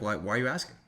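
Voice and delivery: lightly deflecting question with a rising end; throwing it back. Shown as a demonstration. Man deflects a woman's body count question, lightly challenging. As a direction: turn the question straight back on them. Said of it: "Throw right back on them".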